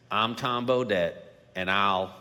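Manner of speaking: a light take on the folksy motel-ad voice; a hint of the laid-back ad announcer; Tom Bodett impression. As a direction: read it like the old motel radio spot. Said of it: "that impression was pretty spot on".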